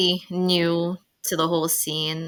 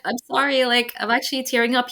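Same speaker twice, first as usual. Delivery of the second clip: higher-pitched, mock-teary apology; retold tearful apology; 6 semitones higher, 3 dB louder than usual. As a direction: act out an embarrassed near-tears apology. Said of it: "I almost started tearing up".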